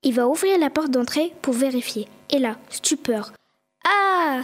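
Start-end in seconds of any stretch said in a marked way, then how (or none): 3.8-4.4 mild frightened yelp, higher; a short gasp of alarm at the door; startled cry. Acted. Schtroumpf Coquet finding the snow-blocked door, startled cry. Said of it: "s'écria-t-il en reculant, affolé".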